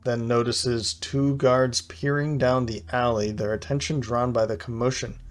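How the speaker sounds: measured, lilting game-story read; story narration. A narrator's reading. Player reads an encounter card aloud, story narration.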